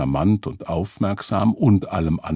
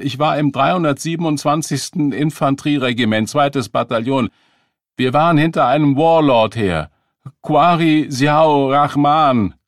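agitated veteran; 8 semitones higher, 8 dB louder than usual. Acted. Veteran rants about his unit.

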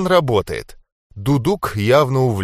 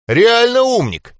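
high, slow mocking jeer; mocking laugh, stretched out; 13 semitones higher, 5 dB louder than usual. A narrator's reading. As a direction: jeer at him through a laugh. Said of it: "снова заржал бронебой".

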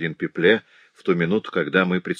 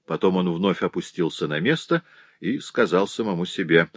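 usual speaking voice

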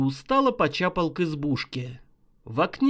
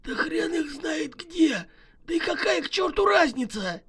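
cheerful mutter; 11 semitones higher than usual. Acted. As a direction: brush it off merrily. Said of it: "Весело пробормотал Шайба".

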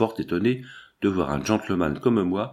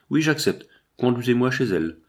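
higher-pitched, terse acceptance; curt dry tone; 4 semitones higher than usual. Acted. Associate demanding to be taken to her, curt dry tone. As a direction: take up the challenge drily. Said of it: "d'un ton sec".

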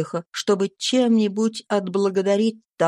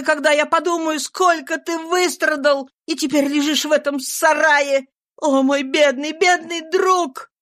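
much higher, louder anguished begging; heartbroken pleading; 8 semitones higher, 4 dB louder than usual. A narrator's reading.

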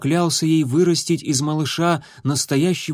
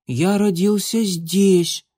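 высокий медленный детский голос; упрямо, по-детски; котёнок возражает; 8 semitones higher, slower than usual. A narrator's reading. (высокий голос котёнка)

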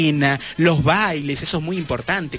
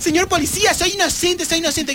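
mock pleading; 12 semitones higher than usual. Begging the police through door.

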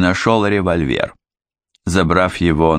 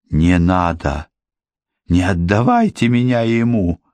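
panicked cry. A narrator's reading. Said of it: "панически закричал тот".

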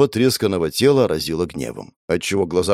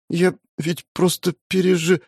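put-on high, thin girlish voice breaking off; a tiny frightened voice, cut short; thin little voice; 11 semitones higher than usual. A narrator's reading. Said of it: "тоненьким голоском шептала она". (тоненький голосок)

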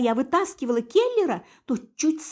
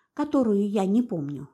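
ordinary delivery, nothing marked

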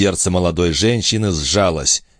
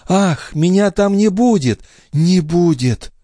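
higher, slow and sorrowful; mild sadness, not whispered; sad; 12 semitones higher, slower than usual. Acted. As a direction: grieve over your absence. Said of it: "с грустью прошептала она".

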